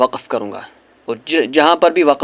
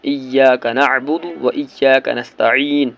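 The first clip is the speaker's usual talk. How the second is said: slow, drawn-out melodic recitation; measured tajweed recitation; slow Quran recitation; slower than usual. Shown as a demonstration. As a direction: chant each word slowly and reverently. Recites verse slowly.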